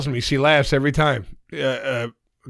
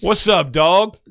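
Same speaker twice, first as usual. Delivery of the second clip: slightly raised imitation of friend's slangy greeting; imitating Joe's street slang; 3 semitones higher, 3 dB louder, much slower than usual. Host showing how his friend Joe talks, lightly imitated street slang. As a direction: mimic a friend's borrowed street-culture accent. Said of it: "someone who's trying to sound like a different culture".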